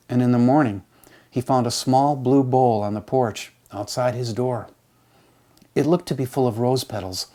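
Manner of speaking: measured, unhurried reading of a poem. Acted. Reads a poem aloud.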